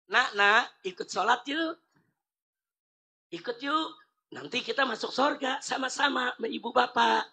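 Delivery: put-on soft, coaxing invitation to a child; gentle coaxing. Parent gently inviting young child to pray, softly coaxing. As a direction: coax the little one kindly.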